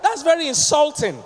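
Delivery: mock prim offended reply; offended spouse. Refined spouse hearing insult greeting, mock offense. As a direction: act wounded, a touch theatrical. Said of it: "marry somebody that say".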